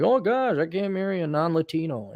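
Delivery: high-pitched "oh gosh", then easing down; mock dismay. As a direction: fake a fretful little objection. Mock worry of someone.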